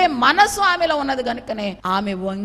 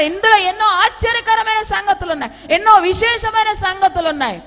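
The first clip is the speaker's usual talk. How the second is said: high, loud preacher's call; fiery preaching; 7 semitones higher, 7 dB louder than usual. Acted. Pastor urging listeners to long for God, loudly preaching. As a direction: lift the church with every line.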